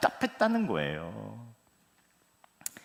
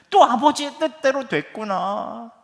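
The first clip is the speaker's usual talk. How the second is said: higher, louder bitter exclamation; resentful outburst; 10 semitones higher, 7 dB louder than usual. Retold or imitated. Son fuming that father's will won again, bitter loud. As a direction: spit it out, fed up. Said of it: "화가 나더래요".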